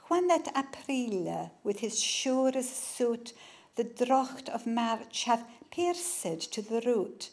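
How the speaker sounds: slow, soft Chaucerian reading; Middle English recitation. Shown as a demonstration. Author reading Chaucer as taught at school, slow and soft. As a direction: give the French words a French lilt.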